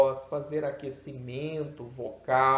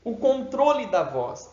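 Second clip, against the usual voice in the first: ordinary talk, nothing marked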